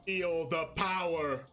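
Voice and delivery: low, slow hammed-up duelist summoning; theatrical low summoning chant, slowed right down; mock anime summon. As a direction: boom out the summon like a card-game villain. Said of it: "I was exaggerating".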